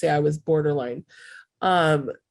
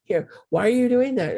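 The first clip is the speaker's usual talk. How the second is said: lightly mimicked pushy tempter, pitch raised; pushy enabler; 3 semitones higher than usual. Enablers pushing a cupcake on you, mock pushiness. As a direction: imitate someone needling and coaxing in a higher voice. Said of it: "These are the people who are like".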